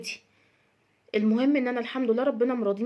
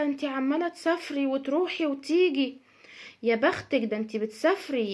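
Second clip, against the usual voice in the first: envious neighbor. Retold or imitated. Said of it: "جارتها سخيفة".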